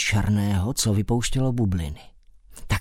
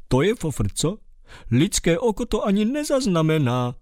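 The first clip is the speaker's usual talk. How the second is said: proud mole; 4 semitones higher than usual. Acted. Mole boasting in character.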